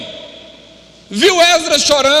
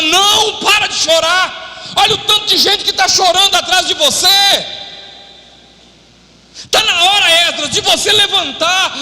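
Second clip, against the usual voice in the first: rebuking shout; 5 semitones higher than usual. Acted. Secanias voiced rebuking Esdras.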